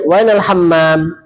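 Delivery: slow dialect "Wainal hammam" with a w- at the start; teacher showing spoken dialect; colloquial Arabic. Shown as a demonstration. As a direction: stretch out "Wainal hammam" as everyday speech. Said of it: "Bahasa Arab amiyahnya".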